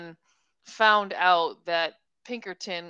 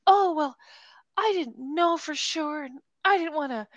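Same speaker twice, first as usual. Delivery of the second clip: higher, hammed-up retold protest; dramatic; 6 semitones higher, 4 dB louder than usual. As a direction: play up the drama of her excuse. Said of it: "it's just so dramatic".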